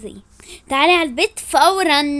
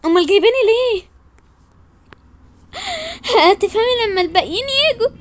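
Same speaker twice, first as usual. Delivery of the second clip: a higher, impatient friend; girlish curious voice; 9 semitones higher than usual. Acted. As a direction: ask it like a curious kid. Higher girl voice.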